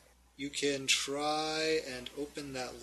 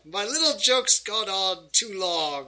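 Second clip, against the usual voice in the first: slightly hammed-up villain, louder at first; theatrical villain; 2 semitones higher, 5 dB louder than usual. Villain revealing himself to the adventurers, theatrical. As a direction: lament your joke with villainous flair.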